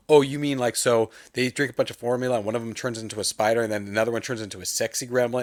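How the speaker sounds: imitated studio exec blurting out a rambling pitch; eager rant. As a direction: rattle ideas off in a rush, overexcited. Acted over-eager pitch rant.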